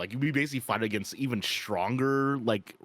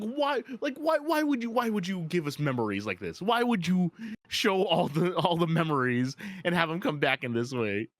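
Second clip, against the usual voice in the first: anguished pleading; 6 semitones higher than usual. Acted. Hero distraught at fake memories.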